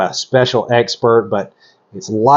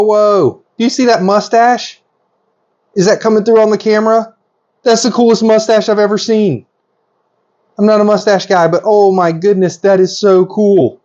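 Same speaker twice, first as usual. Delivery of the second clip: high-pitched, awestruck excitement; geeking out; 7 semitones higher than usual. Real, not acted. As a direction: gush in real amazement. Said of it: "I am geeking out completely".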